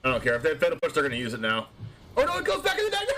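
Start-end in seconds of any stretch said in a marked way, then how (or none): 2.2-3.1 high squeal breaking into laughter; laughing dismay. Real, not acted. Streamer realises the card returns to the deck, laughing dismay. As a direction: wail it high, then crack up.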